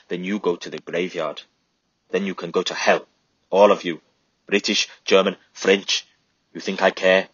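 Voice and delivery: a woman in grief spitting scorn at soldiers; bitter grieving woman. Acted. Grieving mother tells the soldiers to go to hell, bitterly.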